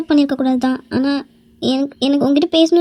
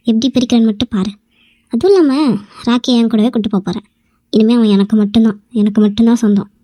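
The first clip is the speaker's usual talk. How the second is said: lower, taunting villain aside; scheming gloat; 4 semitones lower than usual. Acted. Other woman taunting the wife, lower scheming gloat. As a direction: gloat over the rival in a lower voice.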